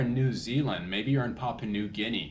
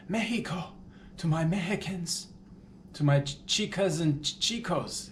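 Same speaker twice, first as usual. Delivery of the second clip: playful Mexican shout-out; 6 semitones higher than usual. Pretend.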